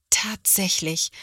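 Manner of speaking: plain reading voice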